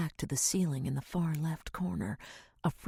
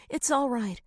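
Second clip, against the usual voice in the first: soothing mother; 9 semitones higher, 5 dB louder than usual. A narrator's reading. Mother comforting scared daughter.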